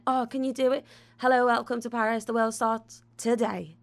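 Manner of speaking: mock the polished TV voice he wanted; imitating the cameraman's version. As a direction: cameraman demonstrating a proper presenter delivery, mildly imitated. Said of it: "change how you say it, voice".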